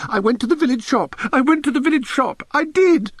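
frantic, high-pitched schoolboy outpouring; breakneck torrent. A narrator's reading. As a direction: blurt it all out in a desperate rush. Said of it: "All this came at a pace".

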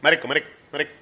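low, softened mimicry of a boss; imitated Korean boss. Employee mimics Korean boss's favourite Venezuelan word, lightly imitated. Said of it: "¿y qué decía tu jefe?".

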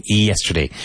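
"yesterday" with a clear Y glide at the start; "yesterday" said with a clean initial Y; correct yesterday. Shown as a demonstration. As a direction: start "yesterday" with a firm Y sound, not J. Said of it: "So it's not yesterday".

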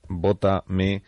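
mock campaign appeal, lightly performed; candidate's plea. Presenter voicing candidates' last messages to voters, mild mock plea. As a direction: play a candidate asking for votes, word by word. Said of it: "los mensajes se resumen seguramente en estas dos palabras".

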